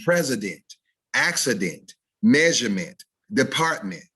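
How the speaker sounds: last syllable full: presi-DENT, acci-DENT, measure-MENT, depart-MENT; overstressed syllables. Shown as a demonstration. Teacher imagining students' mistakes, overstressed syllables. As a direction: hit both ends of president, accident, measurement, department. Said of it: "overly stress our syllables".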